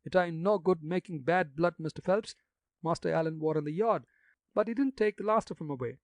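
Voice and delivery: put-on gossipy old gravedigger in broad country dialect. Jacques insists.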